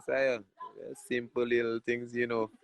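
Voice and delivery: commanding without force. Retold or imitated. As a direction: imitate a manager giving easy but firm instructions. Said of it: "he saying it to me with command".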